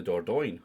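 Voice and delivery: Dordogne said the English way, not the French; anglicised "Dordogne", no French accent; own anglicised pronunciation. Shown as a demonstration. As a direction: say "Dordogne" as an English speaker habitually would. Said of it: "I always call it".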